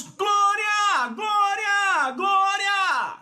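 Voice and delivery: high, loud shouted glória; shouting glória. Acted. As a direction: shout glória at full force. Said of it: "Por que estão gritando?".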